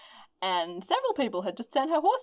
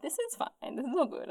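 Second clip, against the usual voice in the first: high nervous reassurance; 7 semitones higher, 5 dB quieter than usual. Retold or imitated. Rosa reassuring herself.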